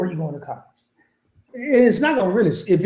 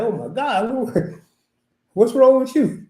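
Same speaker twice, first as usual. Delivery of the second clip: shocked exclaim; 6 semitones higher, slower than usual. Retold or imitated. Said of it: "I'm like".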